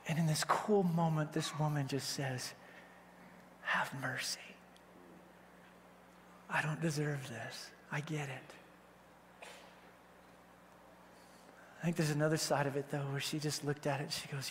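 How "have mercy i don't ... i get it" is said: hushed, low, near-whispered pleading; soft, low voice sinking away; humble plea. Retold or imitated. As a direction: beg quietly for mercy. Woman pleading humbly before Jesus.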